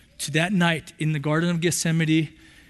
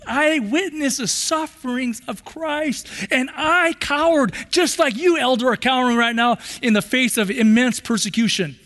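anguished confession; 4 semitones higher than usual. Acted. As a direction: admit your cowardice with pain. Peter confessing his cowardice.

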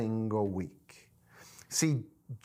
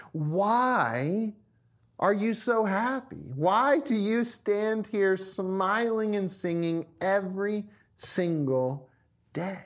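higher-pitched, incredulous demand; exasperated snapping; 5 semitones higher than usual. Acted. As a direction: hammer out the question in acted frustration. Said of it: "snaps at Jim and barks across".

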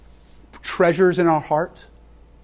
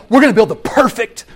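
mock grand utopian. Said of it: "This idea".

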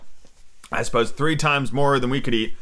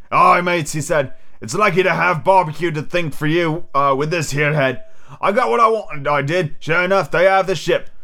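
pirate voice; 3 semitones higher than usual. Acted. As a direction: play Long John Silver boasting to his crew. Silver's pirate voice.

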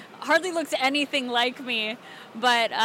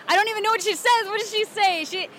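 higher-pitched, sassy Southern accent; crazy Southern character; 4 semitones higher than usual. Shown as a demonstration. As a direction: play a slightly crazy, rude Southern girl. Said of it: "Southern crazy me".

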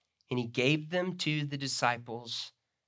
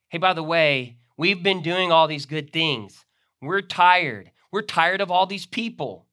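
complaining disciples; 2 semitones higher, 7 dB louder than usual. Acted. Preacher voicing disciples griping to Jesus, whiny. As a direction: play the tired disciples grumbling.

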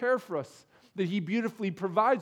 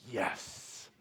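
Napoleon Dynamite yes; 10 semitones lower, 12 dB quieter than usual. Retold or imitated. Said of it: "pulling a Napoleon Dynamite move".

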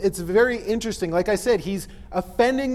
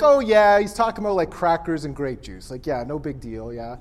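casual shrug-off; 6 semitones lower than usual. Acted. Modern readers brushing off the hard verse, casual and dismissive. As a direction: murmur it away as no big deal. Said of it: "like us when we read that, we're like".

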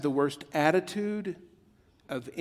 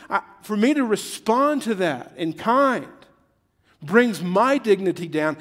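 much higher and louder, hammering each line; full-force preaching; 6 semitones higher, 6 dB louder than usual. Acted. Pastor driving home grow up to the congregation, loud preaching. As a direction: preach it out to the room.

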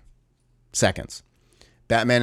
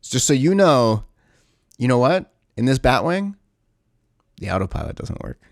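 mock ominous warning; 3 semitones higher than usual. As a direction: tease the movie's heavy-handed reminder. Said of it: "they do it, like, two or three times more".

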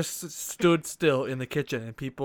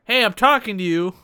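loud, higher barked warning; mock guard yell; 6 semitones higher, 9 dB louder than usual. A guard shouting at the player, mock yelling. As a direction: bark it like an angry guard. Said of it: "they're like".

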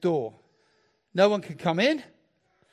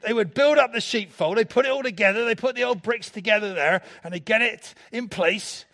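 lightly hammed-up West Country Somerset accent; slight Somerset pirate accent; 3 semitones higher, 3 dB louder than usual. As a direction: keep up the playful Somerset pirate voice. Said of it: "Just like my accents".

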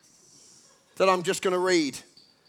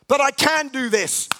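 higher and louder, pleading claim; insistent inner voice; 5 semitones higher, 4 dB louder than usual. Acted. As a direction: push back like someone proving himself. Inner voice, therapist dialogue.

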